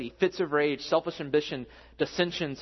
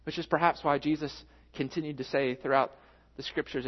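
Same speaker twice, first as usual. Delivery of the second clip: ordinary talk, nothing marked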